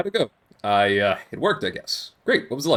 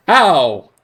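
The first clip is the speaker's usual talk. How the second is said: surprised; 9 dB louder than usual. Real, not acted. Chess move makes no sense.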